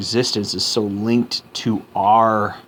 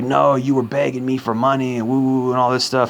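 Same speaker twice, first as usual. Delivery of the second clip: a lightly raised, mocking imitation of her; mock woman voice; 4 semitones higher than usual. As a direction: parody her shrill accusation, half-hearted. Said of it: "And she's like".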